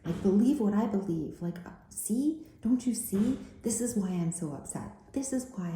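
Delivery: mock yourself begging people to see it; insistent self-imitation. To news audience, self-mockingly insisting they see her side. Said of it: "my go-to is like".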